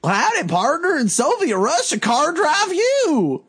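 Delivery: put-on goofy southern Russian accent, pitched high and dragged out. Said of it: "a southern Russian accent".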